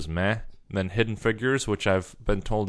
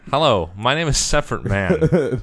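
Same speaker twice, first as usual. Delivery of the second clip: higher, louder comic character voice; hammed-up hello in a raised voice; mock self-introduction; 4 semitones higher, 5 dB louder than usual. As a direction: playfully introduce yourself as a silly character. Voices the made-up man introducing himself.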